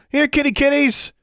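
high, loud taunting cat call; yelled. A narrator's reading. Girl calling panthers to distract them, yelled taunt. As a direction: holler it mockingly down below. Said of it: "she yelled".

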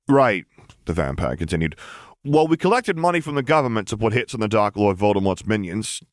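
easygoing henchman brushing off a nuisance; lightly voiced vampire. The vampire continues report.

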